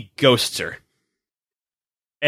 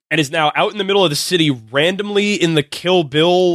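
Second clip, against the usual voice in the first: ordinary talk, nothing marked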